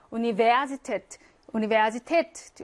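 "우니베아지테트" stressed on final 테트; stress at the end. Shown as a demonstration. Teacher showing learners word stress, end-stressed "우니베아지테트". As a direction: put the weight on 테트 in "우니베아지테트". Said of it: "강세는 뒤에 있어".

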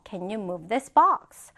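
slow but unbroken example question; joined-up model reading. Shown as a demonstration. Teacher repeating the question whole for students, joined-up model reading. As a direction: say the whole question through, slowly.

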